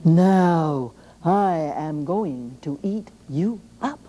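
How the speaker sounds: slow, menacing troll voice; troll threat. Acted. Troll under the bridge threatening the little goat, slow and menacing. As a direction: draw it out like a lurking troll. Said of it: "the big troll ... said".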